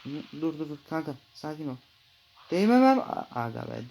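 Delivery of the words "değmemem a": high, loud panicked cry; yelped in a panic; alarmed outburst. Real, not acted. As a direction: blurt it out in alarm. Touches something he shouldn't.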